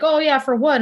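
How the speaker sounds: high, loud, chirpy bandmate asking. Retold or imitated. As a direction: voice the bandmates perking up. Bandmates voiced, curious.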